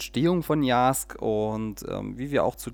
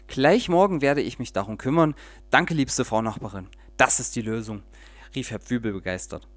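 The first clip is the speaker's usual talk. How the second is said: lively storyteller reading aloud; audiobook-style story narration. A narrator's reading. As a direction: read it like a bedtime tale with little voices. Reads a children's story aloud.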